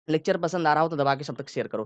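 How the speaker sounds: quick, rushed delivery; said fast. Shown as a demonstration. Teacher demonstrating speech said fast. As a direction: rattle it off quickly. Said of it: "मैंने थोड़ा तेज ही बोला".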